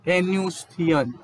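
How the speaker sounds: एनुसिएशन said wrong, stretched slowly; wrong pronunciation. Shown as a demonstration. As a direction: misread एनुसिएशन, slowly and deliberately. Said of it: "अगर मैं ऐसे इस तरह से आपसे के सामने पढ़ने लगूँ".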